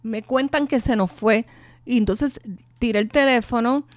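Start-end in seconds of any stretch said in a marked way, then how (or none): 0.0-1.5 llamada alzada y aguda; grito a la hija. Retold or imitated. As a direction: gritarle la noticia a la hija. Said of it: "grité y le dije". (grito de madre a su hija)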